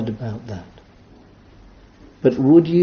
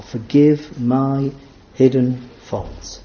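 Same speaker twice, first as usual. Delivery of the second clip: savoring each word; slower than usual. Shown as a demonstration. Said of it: "Look how beautifully simple".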